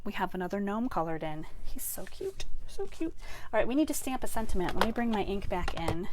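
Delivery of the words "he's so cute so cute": cooing. Real, not acted. Crafter admires the gnome she just coloured, cooing. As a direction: coo in a tiny high voice.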